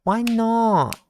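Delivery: put-on high, loud childish whine; whiny child. Little brother whining back at his brother, high and loud.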